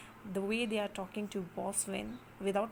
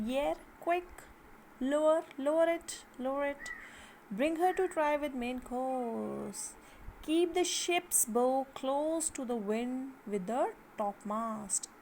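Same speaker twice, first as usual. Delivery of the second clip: raised, commanding call to the sailors; shouted ship's orders; 3 semitones higher than usual. Acted. Teacher as boatswain calling orders to sailors, raised voice. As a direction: bark the orders across the deck.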